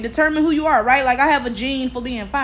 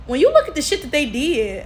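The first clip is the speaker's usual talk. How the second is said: normal talking voice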